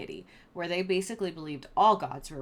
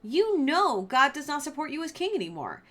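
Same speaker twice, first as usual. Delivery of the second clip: much higher, mock-casual dude voice; sassy Samuel; 8 semitones higher than usual. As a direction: deliver doom like a bored surfer. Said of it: "Samuel's just like".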